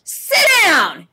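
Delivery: loud, high, commanding teacher voice; shouting orders at a rowdy passenger; stern teacher voice. Retold or imitated. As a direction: lay down the law like a strict teacher. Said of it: "in my best teacher voice".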